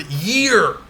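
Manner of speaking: year drawn out and emphasized; stress on year. Shown as a demonstration. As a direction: lean long and hard on "year". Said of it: "that's stressed".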